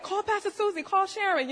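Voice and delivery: loud, high frantic orders; high-pitched, laughing mock panic; freaking out. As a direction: re-enact panicked calls for help, amused. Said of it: "I'm freaking out".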